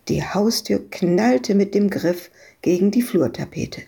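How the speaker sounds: ordinary delivery, nothing marked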